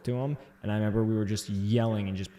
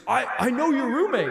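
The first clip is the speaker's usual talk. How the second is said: very high, louder eager squeak; eager reply; 6 dB louder than usual. Retold or imitated. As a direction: plead it like a drunk guest. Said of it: "I was like".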